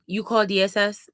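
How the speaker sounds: imitating a rude phone opener; attitude. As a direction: mimic the caseworker's curt question. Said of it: "like that".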